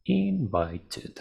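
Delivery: "Invited" slowly split, "in-vai-tid"; ED as extra syllable. Shown as a demonstration. Teacher confirming the form, clear ED syllable. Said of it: "pero invited".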